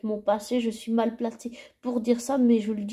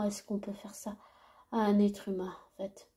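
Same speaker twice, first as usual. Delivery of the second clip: whispering; 7 dB quieter than usual. Real, not acted. Repeats outrage, then whispers it.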